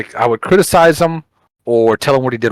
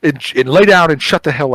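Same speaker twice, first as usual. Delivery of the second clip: mock stern parent scolding; a touch of a fed-up parent at camp; 4 semitones higher than usual. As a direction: order him to bed like a fed-up mom. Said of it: "like a parent".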